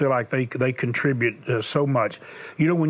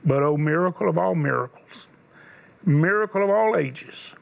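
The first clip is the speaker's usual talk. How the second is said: sermon storytelling. Acted. Preacher tells a dying boy's story to the congregation. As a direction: let each pause land, preacher telling a story.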